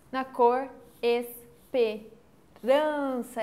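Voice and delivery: pausa depois de "Na cor", "esperança" bem lento; pausa na vírgula. Shown as a demonstration. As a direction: marque a vírgula e arraste "esperança". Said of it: "fazer com que a gente tenha uma pausa". (pausa na vírgula e "esperança" arrastada)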